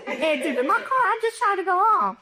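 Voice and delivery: high, teary plea with laughter breaking through; half sob, half laugh; crying with a laugh. Retold or imitated. Pleading with the guard, teary and laughing. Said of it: "I'm crying".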